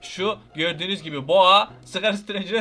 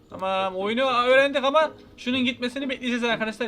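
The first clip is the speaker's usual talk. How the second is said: ordinary talk, nothing marked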